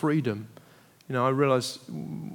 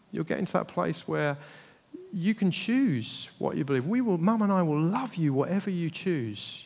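softer, tender, sincere; gentle reassurance; 5 dB quieter than usual. Retold or imitated. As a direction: quietly comfort a struggling child. Parent gently reassures doubting child.

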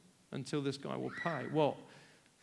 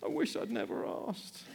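rueful regret; 5 semitones higher than usual. Acted. Repeated regret.

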